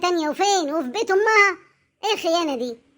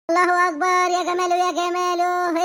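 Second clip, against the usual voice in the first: mock admiration; 5 semitones higher, 3 dB louder, slower than usual. Mock admiration of grandmother's new look.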